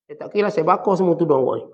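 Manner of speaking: mildly forceful, coarse-wife example; mock rude threat. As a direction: issue a defiant threat, lightly acted. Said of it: "isteri cakap dengan bahasa kasar".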